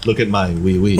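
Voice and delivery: hammy French accent, mock seduction; fake French accent. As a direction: lay on a cheesy French accent. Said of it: "putting on a fake French accent".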